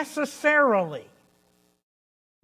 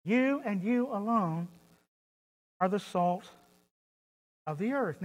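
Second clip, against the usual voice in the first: softly spoken quote; 6 dB quieter than usual. Shown as a demonstration. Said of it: "It's in the emphatic position".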